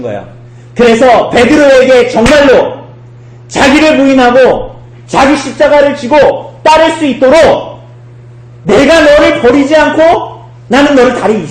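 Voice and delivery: high, loud proclamation; impassioned preaching. Real, not acted. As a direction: build into a forceful sermon climax. Preaching at full force. (힘주어 외치는 설교)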